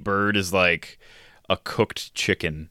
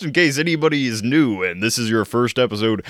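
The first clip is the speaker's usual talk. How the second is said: put-on voice; 5 semitones higher than usual. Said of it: "this is my normal, natural voice".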